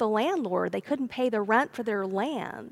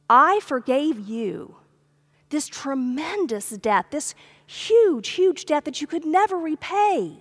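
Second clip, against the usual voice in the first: indignant rebuke; 3 semitones higher than usual. Retold or imitated. Landowner rebuking the unforgiving servant, indignant and rising. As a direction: scold him in stunned outrage.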